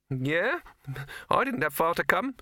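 high, squeaky little rabbit voice; a high, nervous talking rabbit. Acted. Rabbit answering.

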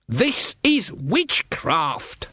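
slow, weighty warning; slow stern emphasis. Acted. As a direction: lay it down slowly and firmly. Granny stern.

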